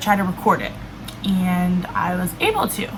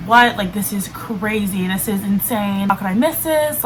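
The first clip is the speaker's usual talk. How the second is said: freaking out; 4 dB louder than usual. Retold or imitated. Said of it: "immediately I start freaking out".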